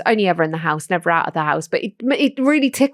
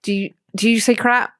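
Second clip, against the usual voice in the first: mock stern; 3 semitones lower, 3 dB quieter than usual. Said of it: "go in and say to Colby".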